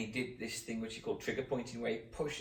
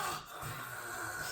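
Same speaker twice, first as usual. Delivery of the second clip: voiceless noisy breathing imitation; long rasping breath; mock weird snore; 8 dB quieter than usual. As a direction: imitate someone passed out, breathing oddly. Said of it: "he's there like that".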